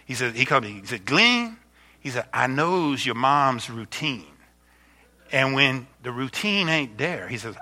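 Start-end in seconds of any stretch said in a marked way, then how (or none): 1.0-1.6 put-on neighbour's accent, higher-pitched call. Neighbour calling the pastor by name, imitated accent. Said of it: "not making fun of his accent". 2.3-7.3 put-on neighbour's accent, slow and softer. Neighbour explaining how he watches over mom, imitated accent. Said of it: "not making fun of his accent".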